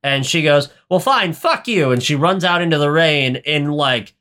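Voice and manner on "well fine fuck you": high-pitched mock fury; imitated huffy outburst, not shouted; furious retort. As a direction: act out an indignant storm-off. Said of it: "furious rage".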